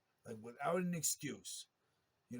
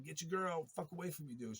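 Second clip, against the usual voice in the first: angry yelled order; 4 semitones higher than usual. Retold or imitated. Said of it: "I said".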